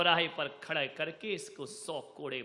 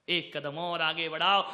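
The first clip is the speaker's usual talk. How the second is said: louder, rising exhortation; rousing call; 6 dB louder than usual. Acted. Preacher urging listeners forward, rousing call. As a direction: push them forward with force.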